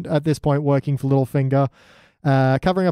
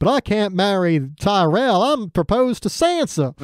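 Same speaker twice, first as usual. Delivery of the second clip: slow, higher-pitched mock protest; protesting groom; 5 semitones higher, slower than usual. Groom objecting before the court, mock protest. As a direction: draw out the objection, voice climbing. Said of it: "He's all like".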